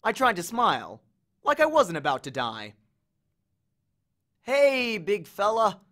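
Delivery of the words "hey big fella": high, louder call upward. Acted. Percy calls up to Cerberus, higher and louder. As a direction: call up to the huge dog. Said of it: "I called up".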